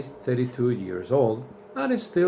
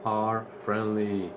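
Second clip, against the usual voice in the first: slow corrected sentence; slower than usual. Shown as a demonstration. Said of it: "So the sentence becomes".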